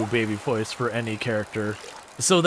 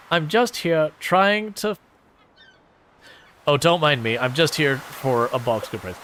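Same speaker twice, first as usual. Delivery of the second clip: lightly voiced shopkeeper. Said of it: "trying to go with a different voice".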